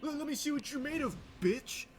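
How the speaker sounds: high-pitched imitation of a cocky young man yelling; a hammed-up high tough talk, like a voice cracking mid-rage; mock high tough-guy yell. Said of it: "He went from, like".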